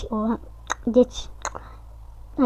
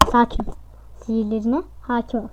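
softer, calming "sakin ol" mantra; self-soothing; 2 semitones lower, 9 dB quieter than usual. Shown as a demonstration. Gamer calming himself down after a loss, softly. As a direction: talk yourself down gently.

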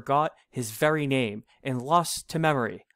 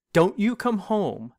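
a stern father's raised warning; 6 semitones higher, 3 dB louder than usual. Acted. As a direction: scold him like a strict father. Father scolding runaway son.

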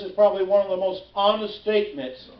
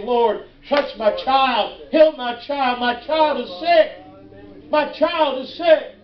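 mildly raised, urgent prayer; crying out to God; 2 semitones higher, slower than usual. Acted. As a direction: plead as a parent for a sick child. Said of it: "people start crying out to God".

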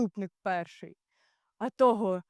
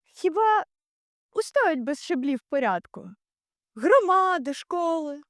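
raised, high-pitched declaiming; impassioned rhetorical challenge; 7 semitones higher than usual. Acted. Ulysses asks what survives without order, impassioned. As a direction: throw the question out in alarm.

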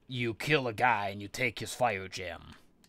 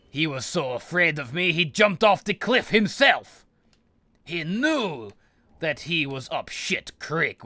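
gleeful gloating; 5 semitones higher, 4 dB louder than usual. Real, not acted. Gloating about enemy's fall.

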